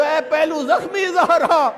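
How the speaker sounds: slow pleading invocation. Retold or imitated. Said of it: "ساتھ یہ کہہ دو".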